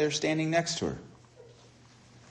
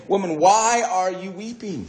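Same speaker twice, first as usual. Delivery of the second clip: questioning angels; 7 semitones higher than usual. Retold or imitated. Angels ask weeping Mary why, raised questioning voice. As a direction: lift the pitch on a searching question.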